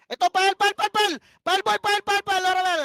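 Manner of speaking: loud, insistent calls to the team; urgent shouted calls. Real, not acted. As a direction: yell the order over the fight. Urgent in-game shotcalling.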